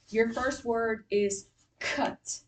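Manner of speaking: slow spelling-test dictation. Shown as a demonstration. Teacher giving the first spelling word, slow dictation. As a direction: give the word slowly and clearly for the class. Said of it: "pencil down, fist up".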